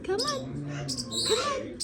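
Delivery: high, soft come-on to a bird; coaxing a wild bird. Real, not acted. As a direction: coo gently to lure the bird. Coaxing a bird onto hand.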